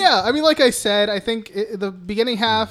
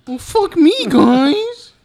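mock exasperation; 11 semitones higher, 9 dB louder, much slower than usual. Real, not acted.

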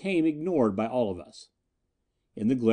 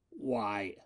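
gasped; 3 semitones lower, 10 dB quieter than usual. A narrator's reading. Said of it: "he gasped".

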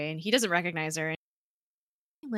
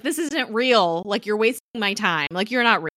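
louder, exasperated retold complaint; imitated frustration; 3 semitones higher, 8 dB louder than usual. Woman fed up with a man who isn't real, mock frustration. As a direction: raise your voice as if fed up. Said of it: "like, getting frustrated".

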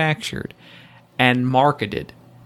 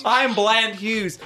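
milder host persona; 8 semitones higher, slower than usual. Pretend. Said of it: "but slightly milder".

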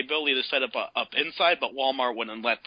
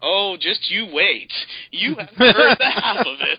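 teasing build-up; 4 semitones higher, 7 dB louder than usual. Real, not acted. Teasing the listener.

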